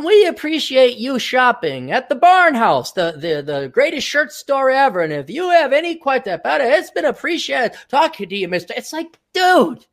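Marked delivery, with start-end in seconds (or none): 0.0-8.7 higher, sugary customer-service script, lightly mocked; scripted rep voice. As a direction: read the script like a chirpy phone rep. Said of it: "they got their script".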